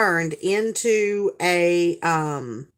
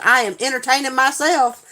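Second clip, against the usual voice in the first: higher, emphatic self-defence; mock-defiant retort; 5 semitones higher, 4 dB louder than usual. Mom answers her son who caught her singing, mock defiance. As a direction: announce it with mock dignity.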